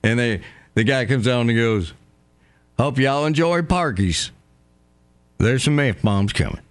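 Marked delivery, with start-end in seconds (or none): 2.8-6.6 a hint of a country announcer welcoming the crowd; mild hick movie-intro accent. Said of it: "that perfect hick voice".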